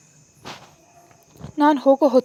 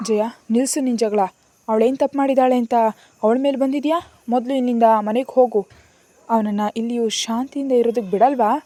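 grandmother scolding, louder and raised; tearful passionate shout; 2 semitones higher, 5 dB louder than usual. Acted. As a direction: plead and scold her daughter at once, voice up. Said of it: "ಕಣ್ಣೀರಾಗ್ತಾ ಆವೇಶದಿಂದ ಕೂಗಿದ್ರು". (ಕಣ್ಣೀರಿನ ಆವೇಶದ ಕೂಗು)

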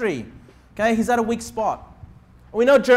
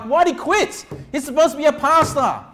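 higher-pitched complaining critic; lightly mocking, incredulous protest; mock indignation; 4 semitones higher than usual. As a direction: imitate an indignant churchgoer, voice raised in pitch. Mimics critics of a quitting pastor.

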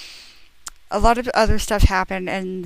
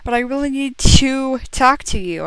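mock begging; 5 semitones higher, 6 dB louder than usual. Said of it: "I begged pleasingly".

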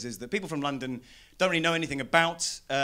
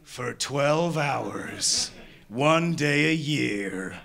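movie trailer voice; slower than usual. Pretend. Ominous Purge trailer parody.

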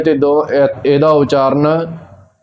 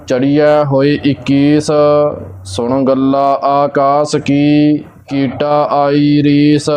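measured Gurbani recitation on a level tone; even, unhurried devotional reading; scripture recitation; slower than usual. Real, not acted. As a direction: recite line by line with drawn-out endings.

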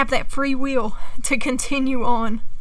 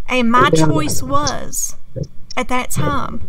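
ordinary talk

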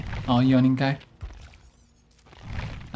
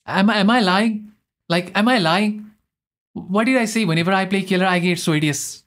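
higher, exasperated disbelief; indignant; 4 semitones higher than usual. Real, not acted. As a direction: protest that you're being wronged. Indignant at accusation of lying.

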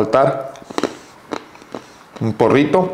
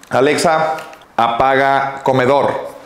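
spaced-out order to a device; voice command; 2 semitones higher, slower than usual. Real, not acted. Vlogger orders Alexa to switch off the dining room, commanding.

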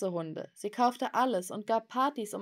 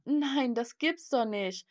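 higher-pitched, incredulous refusal; dismayed disbelief; 5 semitones higher, slower than usual. Acted. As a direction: protest in raised, stunned tones. Shocked at who the tutor is. (ungläubig und bestürzt)

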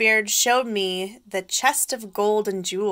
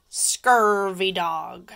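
pirate talk; 3 dB louder, much slower than usual. Acted. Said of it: "say real pirate stuff like".

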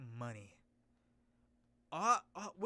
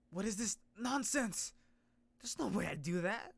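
indignant hero; 4 semitones higher, 5 dB louder than usual. Acted. Framed hero rejects the accusation, raised and indignant. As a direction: deny it in disbelief. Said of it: "I keep changing his voice".

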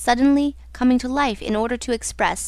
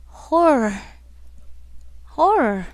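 drawn-out moan of horror; moaned cry; slower than usual. A narrator's reading. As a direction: moan it like a mournful echo. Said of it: "now thrice moaned the cry".

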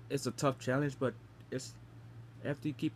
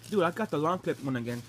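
exasperated; 2 semitones higher, 4 dB louder than usual. Real, not acted. Bad bean again.

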